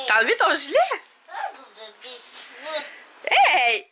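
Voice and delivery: put-on high, playful voice to a toddler; sing-song teasing a little one; playful baby talk.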